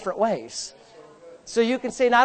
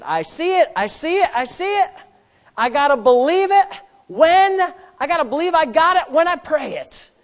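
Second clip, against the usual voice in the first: higher voice, rising with realization; dawning revelation; 4 semitones higher than usual. Acted. Brother Hagin getting the revelation, excited realization. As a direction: act out the truth suddenly landing. Acting out a preacher's sudden revelation.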